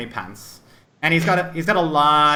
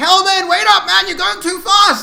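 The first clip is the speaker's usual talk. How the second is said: put-on excited, talkative young character voice, higher and louder; 6 dB louder than usual. Voicing a young companion calling after Hellman: excitable young character voice. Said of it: "He just seems very excitable".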